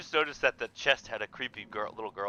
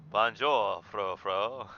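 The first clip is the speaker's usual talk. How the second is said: put-on a light French-accented greeting; 4 semitones lower, much slower than usual. Player greeting the cat, light French accent. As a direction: say it with a French lilt. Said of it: "I was doing a French accent".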